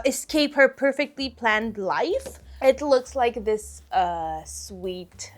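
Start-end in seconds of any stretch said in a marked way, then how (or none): 4.4-5.3 whispered word. Real, not acted. Describing a romance manga to viewers, whispered. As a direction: softly whisper sweet.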